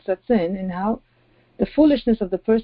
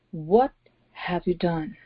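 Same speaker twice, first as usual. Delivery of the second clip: grave, quiet accusation from God; stern God; 2 semitones lower, 4 dB quieter, slower than usual. Acted. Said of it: "Now the voice of God is very different".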